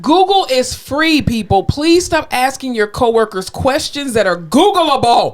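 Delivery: emphatic, drawn-out exasperation; exasperated plea. Real, not acted. Nurse pleading with coworkers to just Google, exasperated. Ranting at question-asking coworkers.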